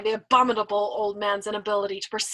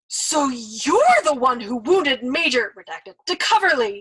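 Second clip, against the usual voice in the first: louder, slow horrified accusation; horrified indignation; 3 semitones higher, 7 dB louder, slower than usual. Acted. Nately accusing the old man, loud horrified indignation. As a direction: accuse him, appalled. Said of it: "he exclaimed in horrified indignation".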